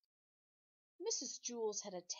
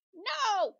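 shrill, much higher, louder no; scream; 13 semitones higher, 15 dB louder than usual. Acted. The teacher screams at escaping children. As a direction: scream in panic. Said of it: "screamed Missus Scorf".

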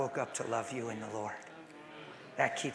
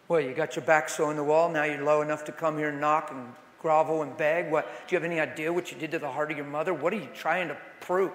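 mock preaching; 3 dB louder than usual. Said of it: "I'm preaching right now".

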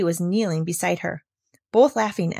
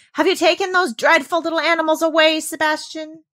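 higher, louder call through a door; anxious governess; 9 semitones higher, 5 dB louder than usual. Acted. Governess calling through the door to the butler, anxious. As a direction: call out nervously.

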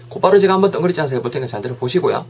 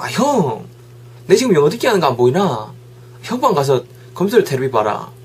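mock irritated whine, pitched up at first; annoyed younger brother; 2 semitones higher than usual. Younger brother snapping at older brother over English listening, mock annoyed. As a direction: act out a little brother's mild tantrum. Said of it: "동생이 막 성질을 부리는 거야".

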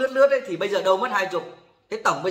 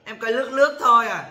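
lightly mocked woman's excuse, a bit raised; imitated woman caller; 2 semitones higher than usual. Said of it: "Bà".

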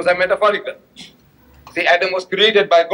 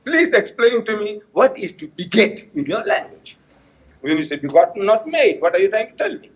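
humble question; 3 semitones higher than usual. Retold or imitated. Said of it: "question, humble question".

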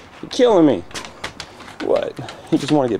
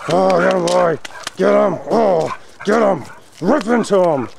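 higher, playful cheering on the dogs; dog owner urging her dog to fight the other dog, playful cheering; egging on; 6 semitones higher, slower than usual. Real, not acted. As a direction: hype the dogs up to wrestle.

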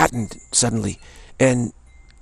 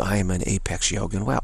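soft mantra; 5 dB quieter than usual. Shown as a demonstration. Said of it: "turn your attention back to".

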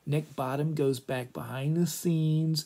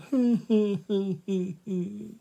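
mock wail; 6 semitones higher than usual. Mock sobbing or giggle after heartbreak.

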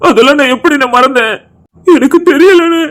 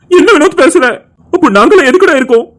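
shocked outcry; 3 semitones higher than usual. Acted. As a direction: burst out in alarm on என்ன. Brother alarmed at suicide vow. (அதிர்ச்சியுடன் உரக்க கேட்பது)

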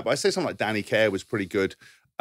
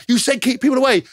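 mock angry guard; 13 semitones higher, 6 dB louder, slower than usual. Guard snapping back at player.

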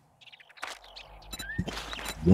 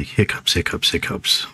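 whispered; 3 dB quieter than usual. Real, not acted. Chanting away his hiccups.

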